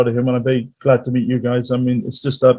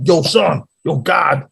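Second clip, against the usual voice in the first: mock New York street accent; bad New York accent; slower than usual. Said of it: "That's a bit bad of an accent".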